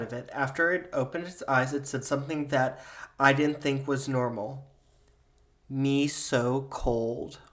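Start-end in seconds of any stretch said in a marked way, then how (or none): 5.7-7.4 creepy Furby. Acted. Haunted Furby speaks.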